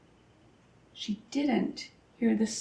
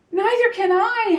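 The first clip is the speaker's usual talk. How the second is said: high, loud wail; howled; 9 semitones higher, 5 dB louder than usual. A narrator's reading. Flitter panicking in the dark, a high loud howl. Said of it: "howled Flitter".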